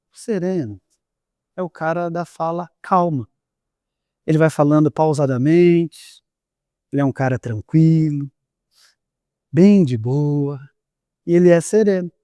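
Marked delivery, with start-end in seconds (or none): 0.1-10.6 calm slow voice. Shown as a demonstration. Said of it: "me ouvindo falar nesse tom de voz". (voz serena, calma e mais baixa)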